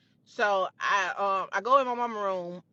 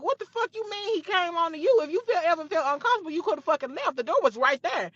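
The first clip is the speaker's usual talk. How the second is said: high, loud furious yelling, climbing higher; yelling higher and louder at the best friend on the phone; screaming on the phone; 8 semitones higher, 4 dB louder than usual. Retold or imitated. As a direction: scream it down the phone at the friend who betrayed you. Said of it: "we both screaming at the phone".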